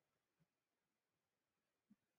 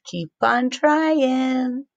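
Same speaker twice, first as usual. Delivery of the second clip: slow, drawn-out, lightly voiced lion; Trying Lion voice; 5 semitones higher, much slower than usual. Lion mascot cheering the kids on, slow. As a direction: stretch it out encouragingly. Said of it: "Trying Lion says".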